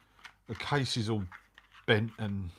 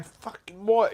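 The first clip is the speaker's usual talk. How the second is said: loud, higher startled yell; startled shout; 11 semitones higher, 6 dB louder, slower than usual. Retold or imitated. Rider retelling his own shout into the intercom, loud and startled. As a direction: bark it back in alarm. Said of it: "And I'm going".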